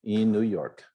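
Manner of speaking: very slow, every word spelled out, falling at the end; slow model question. Shown as a demonstration. Teacher slowly repeating the question for the class. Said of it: "Então".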